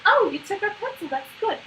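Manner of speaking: high, loud delighted praise; celebrating. Shown as a demonstration. Coach shows praising child who took pencil, celebrating. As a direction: make a big happy fuss. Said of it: "really focusing on celebrating the interaction".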